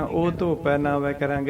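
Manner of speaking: ਉਹ ਧੋਪੈ said quickly with no break; fast wrong ਉਹ ਧੋਪੈ; wrong reading. Shown as a demonstration. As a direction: rushes ਉਹ ਧੋਪੈ ਨਾਵੈ ਕੈ ਰੰਗ wrongly. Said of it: "ਐ ਨਹੀਂ ਬੋਲਣਾ ਅਸੀਂ".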